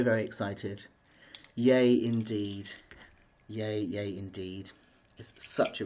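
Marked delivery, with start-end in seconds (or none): 1.6-2.7 slow, savoured "yay"; drawn-out yay. Pretend. Vlogger celebrating her new flat, slow drawn-out yay. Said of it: "I'm so excited". 3.5-4.7 slow, quieter "yay, yay"; soft drawn-out yay. Pretend. Vlogger savouring the news, slow soft yay. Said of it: "I'm so excited".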